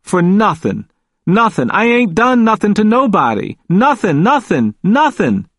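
high-pitched, aggrieved protest; growing agitation. A narrator's reading. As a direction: plead your innocence, getting worked up. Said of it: "He was becoming agitated".

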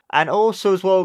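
high, bright announcer lift; announcer hype. Acted. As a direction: pump up the sign-off.

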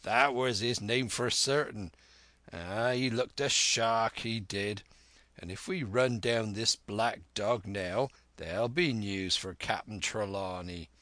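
sailor landlord running on keenly; a hint of a rolling pirate voice; lightly excited Silver. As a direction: talk eagerly like an old sea-cook.

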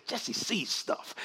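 quiet, slow, breathy murmur of a friend's words; hushed quote. Retold or imitated. Quoting his friend in a slow hushed voice. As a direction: murmur it slowly like a secret. Quoting Kenneth Copeland softly.

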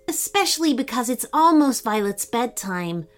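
lightly voiced boy, mild concern; a hint of an earnest, worried kid; Archie. Archie explains parents will worry, lightly voiced boy.

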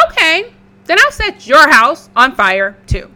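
loud wolf threat. Acted. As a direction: growl the threat at the pigs.

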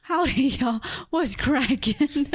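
high-pitched mock Southern accent; playful amateur Southern accent. Shown as a demonstration. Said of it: "can't have Midwest slang into Southern accent".

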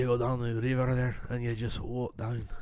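put-on soft, improvised Scottish accent. Co-host riffing on UK accents, light Scottish accent. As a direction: ramble softly in a Scottish accent. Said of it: "That was Scottish".

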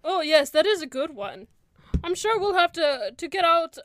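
high, loud, keen approval; elf cleric. Acted. Elf cleric proposing tea with fellow cleric, high and keen.

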